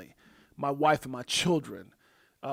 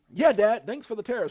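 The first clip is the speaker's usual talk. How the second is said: son's reply; 6 semitones higher, 8 dB louder than usual. Retold or imitated. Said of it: "It says".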